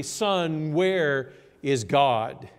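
understated stern question, drawn out; a touch of sternness, words slowly spaced; mildly stern. Acted. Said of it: "he sat the boy down and asked sternly".

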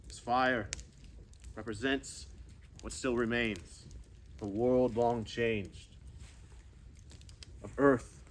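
slow, soft, dry voice of the risen dead; weak hoarse dead voice. Shown as a demonstration. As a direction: speak like a corpse just woken, barely audible. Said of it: "It's going to be weak because you haven't spoken in so long".

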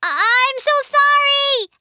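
high, stammered cry; flustered apology. Acted. Baby shark caught with the paper, flustered. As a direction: blurt out a flustered sorry.

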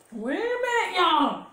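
high, sudden call of Wait a minute; excited. Real, not acted. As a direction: stop everyone, something fun is coming. Sudden excitement before a jingle.

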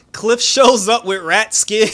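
loud, high, slow laughing delivery; cracking up. Real, not acted. Recapper reveals the rat skin outfit, cracking up. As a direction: barely get it out through real laughter.

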